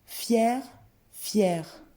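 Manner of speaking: "fier" and "fière" sounded alike, final r heard; same pronunciation. Shown as a demonstration. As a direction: model "fier", then identical "fière", separated by a pause. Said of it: "attention à la prononciation".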